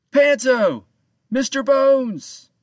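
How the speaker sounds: loud, high call to far-off crew. A narrator's reading. Captain calling out for his missing crew, loud high shouts. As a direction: shout the names, drawing out Bones. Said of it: "he called out to his crew".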